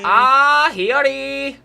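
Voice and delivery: very high, loud squeal of a name; mock anime cry. Friends mocking Hiyori after a complaint, high squealed cry.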